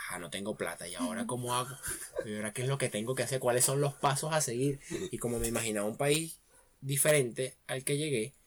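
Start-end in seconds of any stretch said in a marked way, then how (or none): 0.1-4.8 worried. Retold or imitated. Retells his worry with no money.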